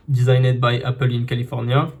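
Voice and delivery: English printed text read with a strong French accent; French accent on the English line. Real, not acted. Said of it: "l'accent anglais".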